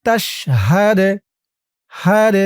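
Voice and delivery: তাশহাদ with a bouncing push on the final d; qalqala. Shown as a demonstration. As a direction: push off the d in তাশহাদ, হাদ with a tiny echo. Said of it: "দাল কলকলার হরফ ধাক্কা দিয়ে পড়তে হবে".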